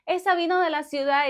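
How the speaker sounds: high, scornful soap-opera lady; lightly acted catty telenovela line; telenovela gossip. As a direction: sneer it like a snobbish telenovela villain. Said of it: "en la novela siempre decían".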